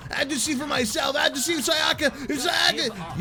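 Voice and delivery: high, distraught pleading; frantic insistence. Acted. Distraught protagonist insists on checking.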